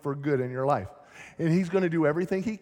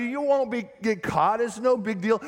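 tempting demon, higher; 6 semitones higher than usual. Acted. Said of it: "the demons are gonna tell you".

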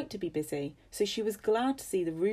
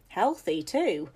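put-on appraising old lady; 5 dB louder, slower than usual. Old lady inspecting the maid.

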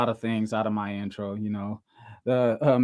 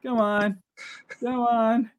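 louder, higher taunting dare; 8 semitones higher, 9 dB louder than usual. Acted.

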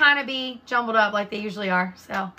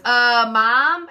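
worried son calling; 2 semitones higher, 7 dB louder than usual. Retold or imitated. Son calls her to muddy dogs.

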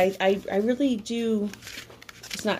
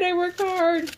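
whiny; 11 semitones higher, slower than usual. Retold or imitated. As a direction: whine like you're exhausted.

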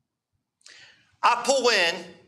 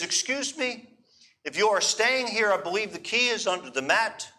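put-on soft, higher voice with a Hebrew accent; 3 semitones higher, 3 dB quieter than usual. Young Israeli lady to arriving guest, imitated Hebrew accent. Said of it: "she says with Hebrew accent".

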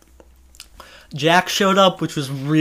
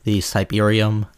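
low announcer voice; 7 semitones lower than usual. Acted. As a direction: drop the pitch and address the listeners. Addresses listeners.

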